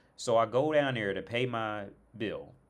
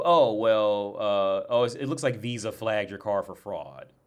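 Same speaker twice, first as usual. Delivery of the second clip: loud, breezy customer-service voice, louder; bank rep on the phone; 7 dB louder than usual. Retold or imitated. Bank rep telling him his card was flagged, loud and breezy. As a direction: play the bank rep brushing it off loudly.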